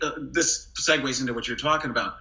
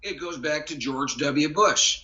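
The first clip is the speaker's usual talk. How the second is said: George W Bush. Retold or imitated. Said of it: "bring it back down".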